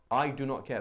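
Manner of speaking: imitating someone who proudly cares about nothing; callous attitude. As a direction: put on a defiant not-caring front. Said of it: "that kind of attitude".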